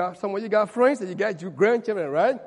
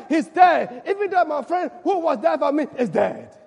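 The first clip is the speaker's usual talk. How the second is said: mourning David; 7 semitones higher, 10 dB louder than usual. Acted. David mourning Jonathan before the church, loud lament. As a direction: grieve aloud, hammering on dead.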